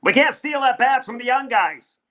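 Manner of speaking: half-hearted mock of the team president; Scott Harris voice. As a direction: lightly mimic the boss's excuse. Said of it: "I don't know why I'm doing that voice".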